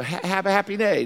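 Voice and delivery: put-on happy-go-lucky sing-out; smiley-face cheer. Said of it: "and smiley face".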